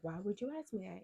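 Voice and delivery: mildly incredulous question; restrained, puzzled demand; retold retort. Same challenge repeated less high.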